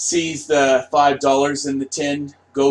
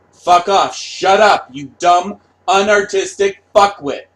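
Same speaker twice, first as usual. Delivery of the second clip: louder, higher angry outburst; angry yell; 3 semitones higher, 5 dB louder than usual. Retold or imitated. Artist insulting a dumb fan, angry yelling. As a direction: bark the insults out. Acted artist raging at fans.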